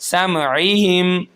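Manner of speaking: समईहिम slow and drawn out; recited word. Shown as a demonstration. Teacher demonstrating the word slowly. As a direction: stretch it gently. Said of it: "एक अलिफ के बराबर खींचेंगे".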